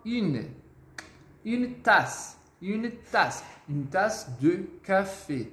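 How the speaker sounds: "Une" as "ee" through pouted lips; "Une" with tight rounded front vowel, word by word; French U. Shown as a demonstration. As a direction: model "Une tasse" carefully with a rounded "ee". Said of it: "o biquinho e o som do I".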